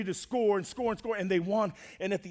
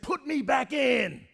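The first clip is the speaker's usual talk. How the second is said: slow, higher-pitched mock shout; hammed-up defiant player; retold insistent demand; 5 semitones higher, slower than usual. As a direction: draw out each word, demanding of the coach. Acted repeated demand to coach.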